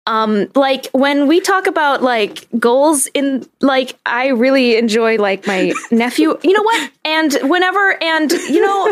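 lightly voiced co-host impression full of filler words; Andrew. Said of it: "Can I do an Andrew impression?".

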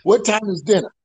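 a cheeky jab at the lady; mock cheeky question. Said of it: "I said".

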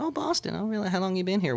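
high, soft chit-chat; lifted, softened voice of polite interest; imitated interested dancer. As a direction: mimic a dancer making friendly conversation.

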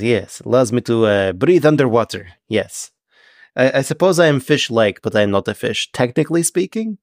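prim, stilted fish-man correcting someone; a hint of a formal, careful sea creature; measured, mildly indignant Triton; lightly voiced Triton. Game master plays the Triton.

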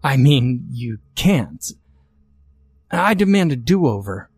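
rising, panicky protest; stammering in rising panic; shaken pleading. Acted. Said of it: "too shaken to argue coherently".

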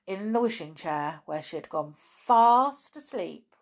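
put-on lively reading to children; story narration. A narrator's reading. Reader opening The Lost Cat chapter, storytelling.

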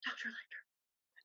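slow, very hushed Southern drawl. Retold or imitated. Podcaster practising the trainee's line, slow hushed Southern drawl. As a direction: draw it out softly in her Southern accent. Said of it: "just us practicing the rest of the time".

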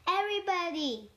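calling out. Acted. Calling the rhyme's figures out.

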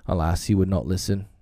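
usual speaking voice

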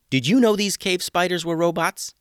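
suspicious question. A narrator's reading. Tatiana questioning the pet shop owners.

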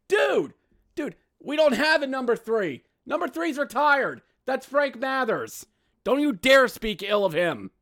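very high, exasperated outburst; high-pitched indignant rant; outraged disbelief. Real, not acted. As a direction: shriek the correction in disbelief. Outraged correction.

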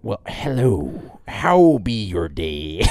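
slow, jolly pirate greeting. Pretend. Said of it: "I'm gonna be the pirate guy".

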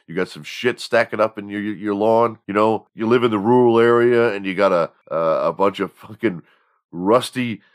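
hyped local radio commercial read; half-serious pitch for a friend's haul-off business; mock radio ad. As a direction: sell it like a small-town lawn service ad.

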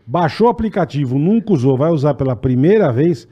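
slow, drawn-out promo pitch; ad read. Acted. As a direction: sell the offer, stretching the key phrases. Co-host delivers sponsor offer.

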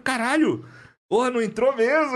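high amazed exclamation; retelling his own shock at the bullet, high; retold disbelief. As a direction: sound stunned it didn't go in. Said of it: "Eu falei".

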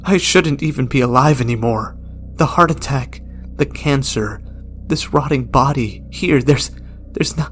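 dying man's anguished shout; breaking outburst. Acted. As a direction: rant until the voice breaks. Gerald breaks up.

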